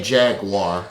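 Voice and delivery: Jaguar said as jag-war; pronounced as spelled. Shown as a demonstration. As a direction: end Jaguar in war, with no wire. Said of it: "like the way it's spelled".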